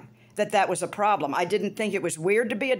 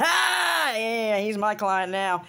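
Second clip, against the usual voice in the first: excited exclamation; much slower than usual. Real, not acted. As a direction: exclaim it, then drag it out. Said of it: "Now he's my client".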